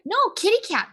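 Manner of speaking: put-on high, insistent little-kid voice; a toddler correcting mom; mock toddler saying no.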